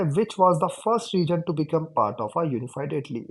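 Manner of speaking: slow, deliberate reading aloud; textbook reading. Shown as a demonstration. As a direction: read each word out slowly for the class. Reads textbook question aloud. (धीमे-धीमे किताब से पढ़कर सुनाना)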